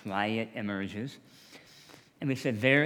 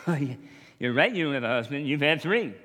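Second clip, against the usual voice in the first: mock woman's retort; 2 semitones higher, 6 dB louder than usual. Woman at the well, Jesus quoted.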